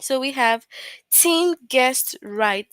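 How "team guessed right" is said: strong feeling. Shown as a demonstration. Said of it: "showing a strong feeling".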